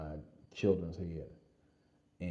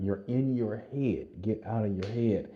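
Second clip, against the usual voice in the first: urgent coaching call; 3 semitones higher, 5 dB louder than usual. Retold or imitated. Running partner repeats the urging.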